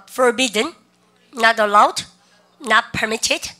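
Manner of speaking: forbidden, not allowed, not permitted, spaced out with lifted endings; repeat-after-me drill. Shown as a demonstration. Teacher leads students through forbidden, not allowed, not permitted, rising drill delivery. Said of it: "쌤하고 한번 다시 따라해 보도록".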